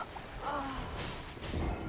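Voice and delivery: long voiceless exhale; deflated sigh. Real, not acted. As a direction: sigh it out after defeat. Just died in game.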